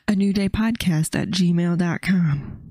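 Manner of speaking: slow, announcer-style read; radio announcer voice. Acted. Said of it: "Do you like my radio announcer voice".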